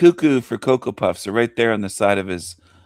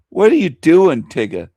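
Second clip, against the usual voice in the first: mocking shout; 5 semitones higher, 5 dB louder than usual. Real, not acted. Taunting the man on video.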